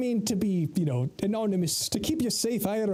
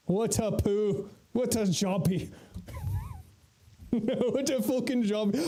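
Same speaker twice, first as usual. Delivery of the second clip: put-on Scottish-Irish accent; slower than usual. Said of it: "how is my accent?".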